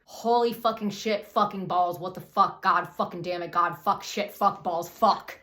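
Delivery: loud, hammered-out string of curses; mock-despairing shouted swearing; anguished outburst. Jeff falls to his knees before daughter, anguished yelling. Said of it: "he's weeping".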